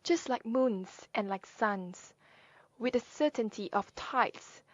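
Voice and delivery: slow, drawn-out poetry reading; poem recitation. Acted. Sharing Maya Angelou's poem, slow deliberate recitation. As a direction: let each image stretch, slowing into the final words.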